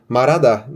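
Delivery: Marada with a tapped R, no H; spoken form. Shown as a demonstration. Teacher showing how Koreans say it. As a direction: drop the H in Marada. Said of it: "cadê o rã".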